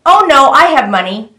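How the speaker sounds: put-on a light take on the angelic girl; sweet young girl voice. Stranger showing her old money, in a lightly sweet girl voice. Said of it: "a very sweet, young girl sounding voice".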